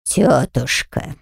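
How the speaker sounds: low, slow, husky growl of a word; very low, hoarse. A narrator's reading. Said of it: "очень низким и хриплым голосом ответила Мармолика".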